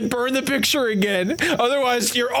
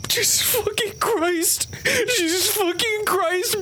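terrified; 6 semitones higher, slower than usual. Acted. Player freaks out at lizard photo.

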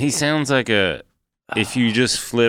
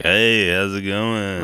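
smooth-talking flirt; 4 semitones lower, much slower than usual. Retold or imitated. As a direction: murmur it like a stock pickup line. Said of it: "He's got one move".

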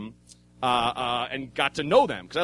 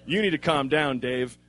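good cop. Retold or imitated. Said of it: "good cop, bad cop".

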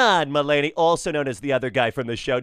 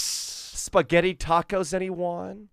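light Tim Cook impression. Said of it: "Tim, as in Tim Cook".

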